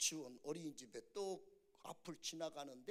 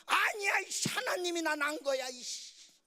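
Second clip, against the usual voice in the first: high shouted bratty comeback; mock defiant child; 9 semitones higher, 11 dB louder than usual. Son contradicts his father, shouted mock tantrum. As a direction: explode in protest, trailing off on the curse.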